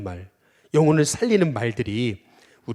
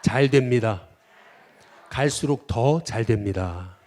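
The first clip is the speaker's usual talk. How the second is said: slow call to repeat; 4 dB louder, slower than usual. Shown as a demonstration. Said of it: "한번 따라해 보겠습니다".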